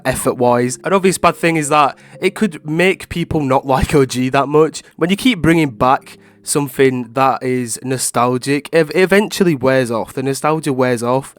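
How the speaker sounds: stuffy, congested voice; blocked nose. Real, not acted. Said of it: "sounds like someone's holding my nose".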